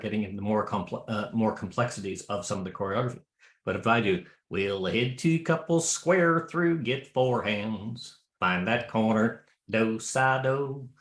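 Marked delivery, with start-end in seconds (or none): 4.5-10.9 drawn-out call with a little pause and emphasis; square dance call. Shown as a demonstration. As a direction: call it on phrase, stretching the words. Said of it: "that little pause, that little phrasing".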